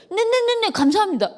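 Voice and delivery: cheeky brush-off that makes it worse; sarcastic thanks. Retold or imitated. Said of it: "더 화가 나게 하는 거예요".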